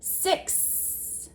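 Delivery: Six whispered, the ks hissed at the end; whispered Six to show the x sound; whispered word. Shown as a demonstration. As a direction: breathe out Six softly. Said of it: "at the end of six?".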